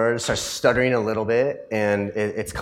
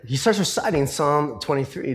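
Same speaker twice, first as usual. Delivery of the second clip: ordinary delivery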